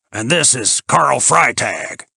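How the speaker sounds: folksy host making introductions; plain-spoken Ben. A narrator's reading.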